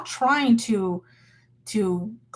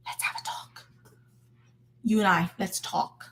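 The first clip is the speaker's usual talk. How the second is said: quiet menace; 4 semitones lower, 6 dB quieter than usual. Retold or imitated. Confronting the youth pastor.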